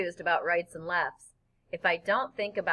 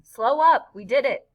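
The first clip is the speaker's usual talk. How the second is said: much louder, high call; relieved shout; 4 semitones higher, 8 dB louder than usual. Acted. Boy tells his friend to stop in the pond, relieved loud call. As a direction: stop him and celebrate.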